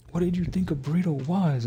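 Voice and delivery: imitated incredulous question, pitched high; mock disbelief. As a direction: act out a friend's baffled, high-pitched question. Acted friend's disbelief over burritos.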